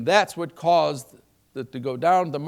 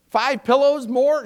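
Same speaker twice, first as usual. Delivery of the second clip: incredulous question; 8 semitones higher, 6 dB louder, slower than usual. Retold or imitated. Reacting to wife's plan.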